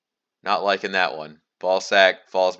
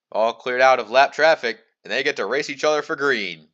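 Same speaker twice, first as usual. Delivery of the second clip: higher-pitched race commentator's roll call; live restart call; 4 semitones higher than usual. Acted. Commentator naming the top four before green, live restart call. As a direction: announce the front runners for the green.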